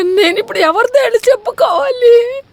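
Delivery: sobbing outcry; crying shout. Acted. Betrayed wife crying out for someone to turn to.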